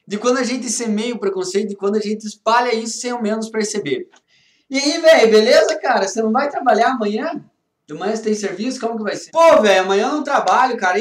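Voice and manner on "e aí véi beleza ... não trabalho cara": casual buddy chat. Acted. Acted chat between two friends.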